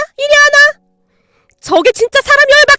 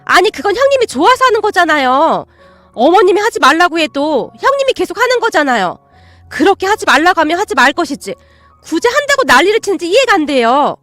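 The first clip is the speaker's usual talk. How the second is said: angry aunt; 4 semitones higher, 4 dB louder than usual. Acted. Aunt argues back heatedly.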